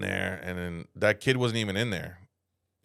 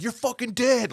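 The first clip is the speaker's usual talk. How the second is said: squeaky high kid voice, imitating; mock a little kid threatening; high mock kid threat; 14 semitones higher than usual. Mimicking the kid who threatened him, high and squeaky. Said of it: "He's like".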